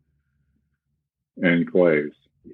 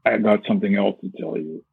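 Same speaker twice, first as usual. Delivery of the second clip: tight, held-breath delivery; choked voice; 3 semitones higher than usual. Shown as a demonstration. Showing the listener a tight choked voice. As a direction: squeeze the words out with a choked throat. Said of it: "this kind of choke".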